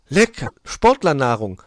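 high bird voice, pleased; delighted little bird. Acted. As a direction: dig into the snack gleefully. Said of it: "freute der sich".

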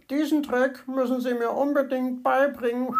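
high, eager little bird; enthusiastic. A narrator's reading. Little bird to the fox, enthusiastic. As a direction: beg to learn it, thrilled. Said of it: "sagte Zwitschi begeistert".

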